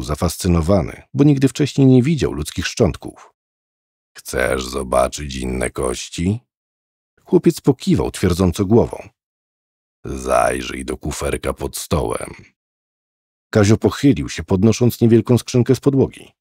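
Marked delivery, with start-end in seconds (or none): 4.2-6.4 put-on low, soft, slow old man's voice; a sinister old man speaking low and slow. 10.0-12.3 put-on old man. Old man voiced in story.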